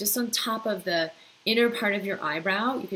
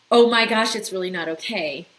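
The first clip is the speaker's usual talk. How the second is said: loud alarmed exclamation; mock panic; 7 dB louder than usual. Imitating the body's alarm: loud mock panic. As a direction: voice the body's overreaction. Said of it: "fight or flight intensity".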